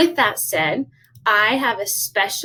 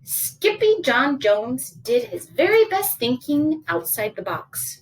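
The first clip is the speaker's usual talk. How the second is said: animated storybook telling; story narration; 3 semitones higher than usual. A narrator's reading. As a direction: read a picture book to children.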